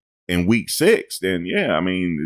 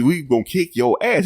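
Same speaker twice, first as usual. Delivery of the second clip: high, playful mock coach voice; imitating the coach's boast; mock quote; 9 semitones higher than usual. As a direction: mimic the coach teasingly. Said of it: "He says".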